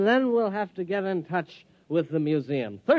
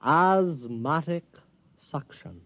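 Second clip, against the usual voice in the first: slow repeat. Acted. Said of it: "Say that again".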